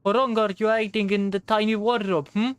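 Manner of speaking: put-on Russian-accented character voice. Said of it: "it's the one with the Russian, uh, accent".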